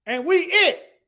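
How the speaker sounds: a hint of J J repeating himself. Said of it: "in my J J voice".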